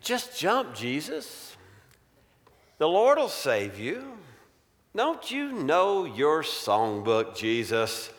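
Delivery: lightly voiced tempter; coaxing Satan. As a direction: coax him with a lilting, sly question. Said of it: "But Satan has twisted things".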